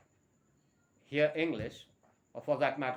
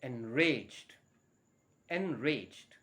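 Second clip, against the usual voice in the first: slow model word; much slower than usual. Shown as a demonstration. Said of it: "he or she".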